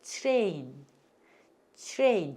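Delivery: 트레인 as "chrain", set apart for repeating; model for repeating. Shown as a demonstration. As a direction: say 트레인 with a blended "chr" onset. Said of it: "따라서 해보세요".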